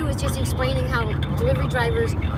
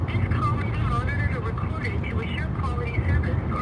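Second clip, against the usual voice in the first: recorded phone message; 3 semitones higher than usual. Real, not acted. Automated message during support call.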